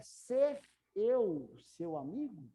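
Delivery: very slow, "Ser" stressed; slow literal translation. Shown as a demonstration. Teacher slowly gives the literal translation to students. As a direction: drag out the word-for-word version. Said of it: "Traduz basicamente assim".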